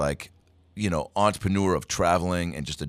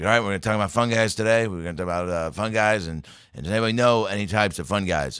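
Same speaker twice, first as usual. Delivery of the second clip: imitating curt teacher; 3 semitones higher, 3 dB louder than usual. Imitating science teacher in class.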